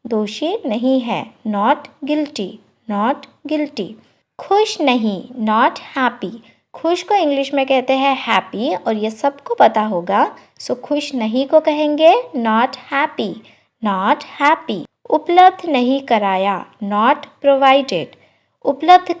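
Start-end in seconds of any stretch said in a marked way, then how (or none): 1.5-3.9 slow, careful repeat; slow teacher repetition; slow demo. Shown as a demonstration. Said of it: "slow repeat for learners". 16.9-18.2 slow, careful model phrase; slow teacher demo of the English. Shown as a demonstration. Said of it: "slow model phrase".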